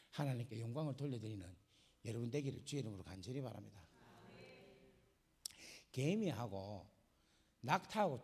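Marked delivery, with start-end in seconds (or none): 0.1-3.8 low, quiet spoken blessing; soft benediction. Real, not acted. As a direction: settle into a gentle closing blessing. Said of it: "repeated benediction".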